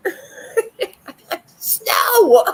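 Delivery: sudden loud high No; mock outraged no. Pretending to refuse a game, loud mock no. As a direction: shout it as if refusing flat out. Imagined refusal, laughing then yelling.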